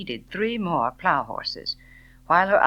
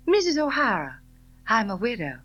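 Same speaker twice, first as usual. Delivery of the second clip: sharp cut-in; 7 semitones higher, 3 dB louder, faster than usual. A narrator's reading. Scarlett cuts in.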